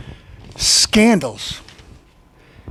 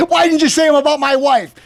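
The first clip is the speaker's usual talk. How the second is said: mock president; 6 semitones higher than usual. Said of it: "the president goes on T V and says".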